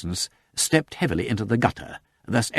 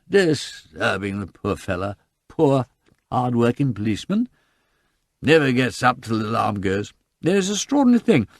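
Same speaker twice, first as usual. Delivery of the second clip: tipsy lament; 3 semitones higher than usual. Acted. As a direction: pity the sleeping policeman, tipsy. Drunk lamenting the policeman.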